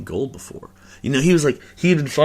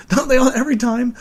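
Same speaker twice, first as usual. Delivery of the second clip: louder repeat, breaking into a laugh; 13 semitones higher, 6 dB louder than usual. Real, not acted. Podcaster repeating his own joke to listeners, laughing. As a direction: laugh it out the second time.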